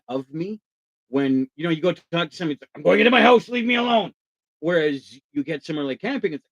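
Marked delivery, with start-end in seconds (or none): 2.8-4.1 higher, brushing-off voice, half acted; unfriendly neighbour. Neighbour at home turning a visitor away, mock brush-off. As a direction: shoo someone away, lightly mocking.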